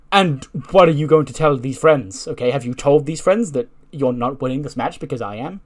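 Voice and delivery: mock scolding interrogation; acted confrontational questioning. Acted quarrel between the two wrestlers.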